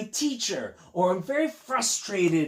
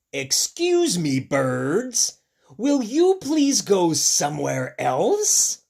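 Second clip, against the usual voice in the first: louder, slow polite plea; polite request; 7 dB louder, slower than usual. Acted. Elephant politely asking birds to leave.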